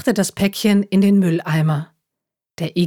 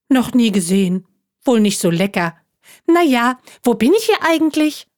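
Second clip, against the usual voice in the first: higher, chatty little talking juice box; chirpy juice pack; 5 semitones higher than usual. Acted. Juice pack explaining itself to the hedgehog, chirpy and higher. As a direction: bounce along like a cheerful carton.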